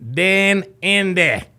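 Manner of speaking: a hammed-up bad Australian accent on the place name; mock-Aussie twang, deliberately overdone. Shown as a demonstration. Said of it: "Very easy to do a bad Australian accent".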